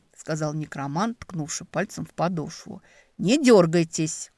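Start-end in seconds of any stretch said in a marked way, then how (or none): 3.2-4.3 slow, stern command; slow firm order. Acted. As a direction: order each word out slowly. Necromancer commands.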